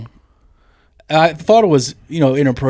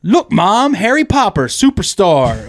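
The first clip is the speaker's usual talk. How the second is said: put-on little kid voice; 5 semitones higher, slower than usual. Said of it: "one of them just goes".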